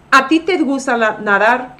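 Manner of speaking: "A ti" said with weight; emphatic. Shown as a demonstration. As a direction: stress on "A ti". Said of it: "just makes it more emphatic".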